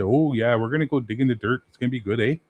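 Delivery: put-on light Minnesotan-Canadian accent, "eh?"; a cheerful halfling in a Minnesotan accent. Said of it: "Canadian slash like Minnesotans".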